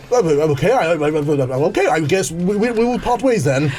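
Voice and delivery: flustered, stammering mock-posh gent; posh English accent. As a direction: dither in put-on posh English. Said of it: "a bit too posh for me".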